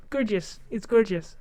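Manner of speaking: instinctive American take on gorgeous; gorgeous in an affected American accent. Shown as a demonstration. Showing viewers the instinctive way, American accent. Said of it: "I can't say gorgeous properly".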